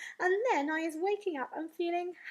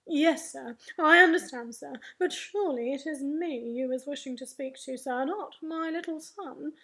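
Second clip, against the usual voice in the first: flustered, deferential phone reply, loud at first; funny flustered voice; 5 dB louder than usual. Acted. Father pleading with an important caller, funny voice. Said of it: "his voice goes all funny".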